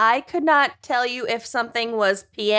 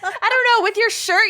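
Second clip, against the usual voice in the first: high, laughing and teary; cracking up; 9 semitones higher than usual. Real, not acted.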